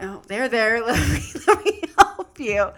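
laughing, cooing comfort; mock consoling. Woman comforting her tearful fiance, mock soothing. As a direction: soothe him like a child, amused.

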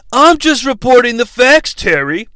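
put-on wrestler voice; mock-defensive wrestler excusing himself; Triple H. Continues voicing Triple H.

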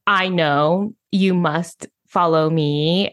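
firm, slowing imitation of a self-sure expert; matter-of-fact. Imitating online business people telling others to follow, matter-of-fact. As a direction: pronounce it like an unquestionable rule. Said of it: "things just sound so matter of fact".

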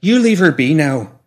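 slow scolding from a worried woman; mock threat. A narrator's reading. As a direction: draw out the warning, high and loud. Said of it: "said with mock threat".

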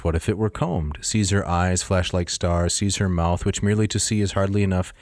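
measured reading of translated verse; reading a poem aloud. Acted. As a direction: read the passage to the class. Reads Ovid translation aloud.

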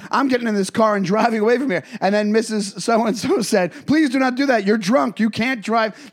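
a light court stenographer reading back the record; court stenographer readback. Retold or imitated. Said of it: "that's my impression of a court stenographer".

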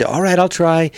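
put-on voice. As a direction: answer in a cartoon voice. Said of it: "always want me to do voices".

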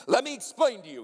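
lightly voiced college president; a touch of an emphatic old mentor's delivery; Doctor Haug. College president explains the erased deacon to students, lightly imitated. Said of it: "He'd talk like this".

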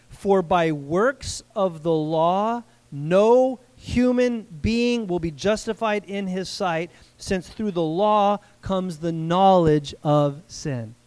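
slow, weighty verse reading; scripture reading. Acted. Preacher has them listen to verse twenty, slow scripture reading. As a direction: draw out each phrase of the verse. Reads scripture aloud to congregation.

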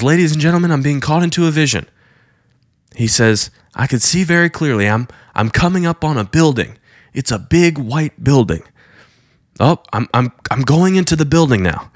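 rapt vision report. Retold or imitated. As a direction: describe the vision as it unfolds, awed.

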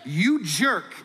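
a mock furious commuter, high and pushed; mock road rage. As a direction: play the outraged driver yelling at a car. Mock angry driver rant.

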